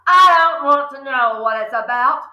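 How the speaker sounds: sharp barking interruption; barked. Acted. Father barking at Matilda to stop. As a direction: cut her off with a bark. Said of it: "Wormwood barked".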